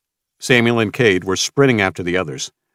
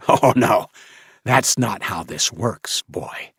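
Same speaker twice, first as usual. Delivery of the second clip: slow taunting villain; slower than usual. Acted. Villain taunting after laughing.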